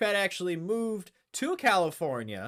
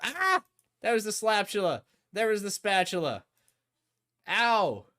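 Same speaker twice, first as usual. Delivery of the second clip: a lightly raised, louder streamer voice; mock Sleeping Dogfish, higher and louder; Sleeping Dogfish impression; 3 semitones higher, 3 dB louder than usual. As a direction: hype it up like another streamer. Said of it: "my Sleeping Dogfish impression".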